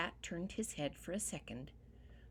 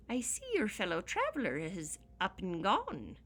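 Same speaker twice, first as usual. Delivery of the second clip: leprechaun; 2 semitones higher, 4 dB louder than usual. Acted. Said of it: "said the leprechaun".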